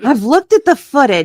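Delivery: amused laugh over the words. Real, not acted. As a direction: say it while cracking up. Laughs while rereading her line.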